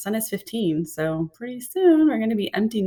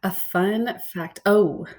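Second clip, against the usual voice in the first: whispered musing. Real, not acted. Stalling over a question.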